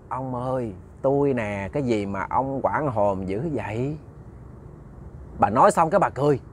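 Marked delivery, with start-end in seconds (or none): 0.1-4.0 put-on soft, subdued old wife; gently voiced revenant; calm reassurance. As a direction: speak quietly, slowing toward the end. Risen dead wife calmly addresses husband.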